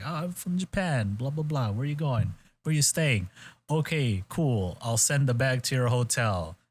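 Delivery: incredibly smooth. Retold or imitated. Retelling an airport role-play, incredibly smooth. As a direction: breeze through a rehearsed exchange, lilting. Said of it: "like, incredibly smooth".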